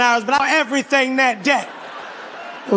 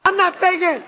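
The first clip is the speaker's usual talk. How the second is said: desperate protest; 3 semitones higher than usual. Acted. Protesting accusation of faking.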